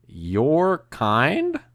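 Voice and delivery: drawn-out question with a rising end; puzzled, offended echo of someone's words; retold incredulous question. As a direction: stretch it out in disbelief, rising. Retold question to David, first take.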